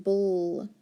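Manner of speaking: "bull" said alone, stretched; final-syllable sound. Shown as a demonstration. Teacher repeating a sound for pupils, isolated syllable. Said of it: "the bull sound".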